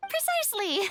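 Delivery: high-pitched, self-satisfied chuckle; smug. Acted. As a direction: crow "precisely" and laugh smugly. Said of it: "That sounded so smug".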